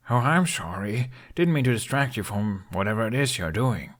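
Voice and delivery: mock-apologetic, dry; mild sarcasm; sarcastic. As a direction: needle the grumbling dragon. Sarcastic to dragon.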